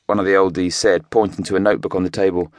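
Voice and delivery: ordinary talk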